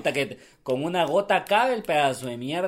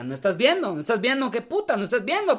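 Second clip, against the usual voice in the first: mock angry complaint; 7 semitones higher than usual. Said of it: "Fue como así".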